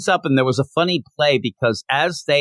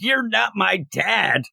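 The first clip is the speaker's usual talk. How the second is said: put-on a slow, sulky teenager's retort; lightly voiced bratty teen; 6 semitones higher, slower than usual. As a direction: drag it out like a pouty kid. Teen Deathstroke sulking at Chemo.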